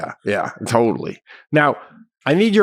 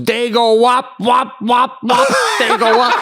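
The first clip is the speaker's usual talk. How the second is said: mock shop owner; 8 semitones higher, 3 dB louder, slower than usual. Shop owner's slur joke.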